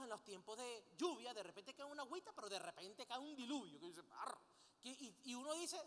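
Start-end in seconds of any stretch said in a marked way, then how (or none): 4.1-4.4 short imitated burst of pouring rain; imitated downpour. Preacher describing a sudden cloudburst, imitated downpour noise. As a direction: mimic a sudden deluge in one noise.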